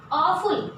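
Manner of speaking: "Awful" said clearly as AW-ful; "Awful" with a long AW, falling at the end; pronunciation demo. Shown as a demonstration. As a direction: model the word "Awful" for pupils. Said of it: "kindly look at its pronunciation".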